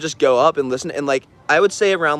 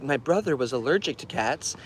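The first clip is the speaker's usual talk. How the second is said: much softer, distant, off-topic murmur; spaced-out old lady; 7 dB quieter than usual. Retold or imitated. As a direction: say it softly, lost in thought. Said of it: "she looked at him and she's like".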